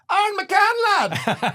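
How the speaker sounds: high, loud mock yell of a name; fan yelling name. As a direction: hail him from a passing car. Fan yells from car window.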